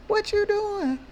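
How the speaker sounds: high, loud imitated yell of What you doing; retold scream. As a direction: shout it at a kid across the playground. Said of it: "somebody scream at me".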